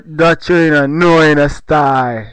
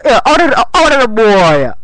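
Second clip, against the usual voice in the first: high mock reply; 6 semitones higher than usual. Mocking the echo back.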